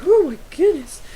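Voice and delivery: high, loud mock-swoon gasp; squealing in fake awe; swooning girl. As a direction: play a starstruck girl melting over him. Girls swooning over gamer.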